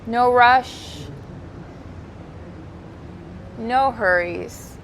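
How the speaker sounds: calm, unhurried yoga teacher cues; soothing voice leading a stretch; guided yoga instruction. Acted. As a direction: guide the class gently through each stretch.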